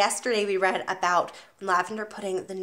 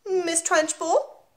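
put-on 1 small boy voice; 8 semitones higher, much slower than usual. Small boy answers slowly.

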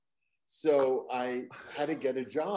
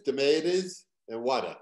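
Boston accent; 5 dB louder than usual. Shown as a demonstration. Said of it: "in Boston it's water".

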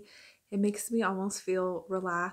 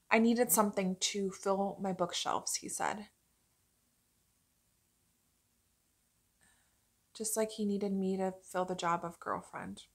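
confiding in a friend. Acted. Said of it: "as if I was talking to my friend".

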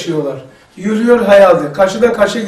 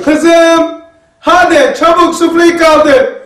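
mother calling; 6 semitones higher, slower than usual. Retold or imitated. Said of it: "Annesi bağırıyor".

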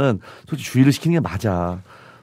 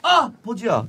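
joking split pronunciation; 7 semitones higher, 4 dB quieter, much slower than usual. Shown as a demonstration. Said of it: "이렇게 괜찮잖아".

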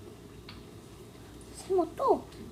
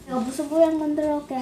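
eating cereal; faster than usual. Real, not acted. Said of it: "다 먹었잖아".

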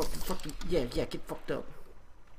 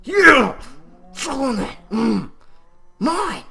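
much louder, much higher victory yell; triumphant shout; 5 semitones higher, 9 dB louder, slower than usual. Real, not acted. Gamer shouting with joy over diamonds, very loud. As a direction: scream with joy over the find.

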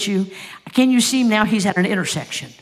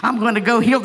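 "healed" rising, higher and bold; louder excited declaration; 4 semitones higher, 3 dB louder, much faster than usual. Acted. Sick woman vowing she'll be healed, excited. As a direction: proclaim "healed" with fierce hope. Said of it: "what she say".

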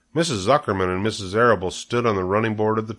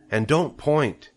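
higher-pitched maternal reproof; mother chiding; 6 semitones higher, slower than usual. A narrator's reading. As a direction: add a prim correction. Mother scolding her daughter.

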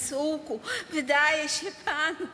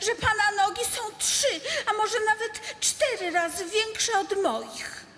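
laughing; 3 semitones higher than usual. Acted. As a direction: tease him while chuckling. Teasing him about his hairy legs.

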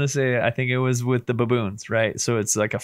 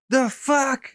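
high, incredulous dog voice; baffled dog voice; 14 semitones higher than usual. Retold or imitated. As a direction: voice the dog as confused and offended. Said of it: "he's like".

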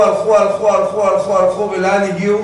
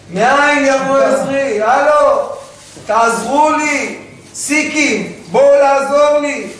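crying out for help; 5 semitones higher, slower than usual. Acted.

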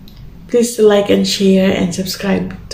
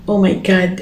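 awed whisper. Real, not acted. Awed by the singing.

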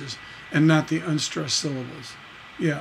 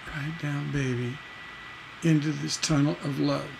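soft reread; 7 dB quieter than usual. Shown as a demonstration. Teacher softly re-reads lyric.

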